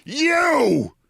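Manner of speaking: sudden high accusing cry; shout. Retold or imitated. The speaker recognizes Maher, in a sudden high accusing shout. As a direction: fling the word at him. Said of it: "I shout at Bill Maher".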